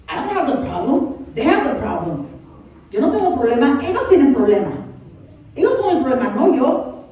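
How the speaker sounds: mildly indignant blame-shifting; deflecting. Acted. Someone insisting others have the problem, deflecting. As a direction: push the blame away with rising emphasis. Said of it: "like, deflect it".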